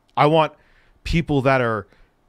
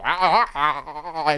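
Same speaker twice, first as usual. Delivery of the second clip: mock gargling; 3 semitones higher, faster than usual. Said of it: "He would be gargling them".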